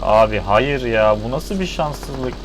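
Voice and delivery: loud, slow dismayed cry; being chased. Real, not acted. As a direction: wail at the bad luck. Getting shot while fleeing.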